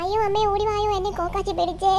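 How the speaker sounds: high panicked wail on waking; startled cry for help. Acted. Woken suddenly, calls mother for help, frightened wail.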